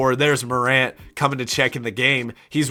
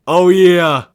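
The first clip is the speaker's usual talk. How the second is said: excited; 5 semitones higher, 10 dB louder than usual. Real, not acted. Excited about the matchup.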